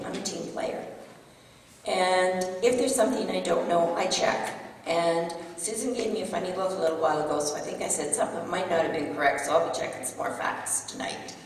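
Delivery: hoarse, voice giving out; raspy whisper, worn-out voice; losing voice. Real, not acted. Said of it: "I'm losing my voice here".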